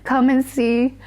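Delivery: put-on high, slow little boy's plea; son begging. A mother recalls her five-year-old son begging her not to go, high slow pleading child voice.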